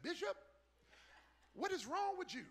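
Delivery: high, loud incredulous question; hammed-up assistant's bafflement; alarmed bewilderment. Assistant seeing his bishop weep, acted high-pitched alarm.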